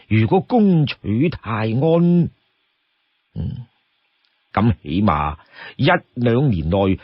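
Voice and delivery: lightly voiced chief weighing then assigning tasks; deliberate, composed and rather low; Song Jiang. Voices Song Jiang pondering, giving orders.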